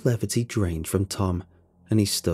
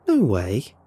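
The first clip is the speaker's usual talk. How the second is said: shout; 4 dB louder than usual. A narrator's reading. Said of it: "I shouted".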